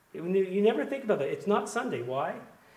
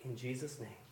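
soft amen; 10 semitones lower, 19 dB quieter than usual. Real, not acted. Closing prayer.

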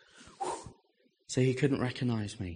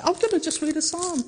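sneaky reading. Retold or imitated. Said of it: "read a psalm like this so no one would see".

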